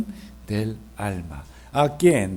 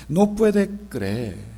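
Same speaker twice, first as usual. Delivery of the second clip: slow emphasis; slower than usual. Shown as a demonstration. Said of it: "sin conocer".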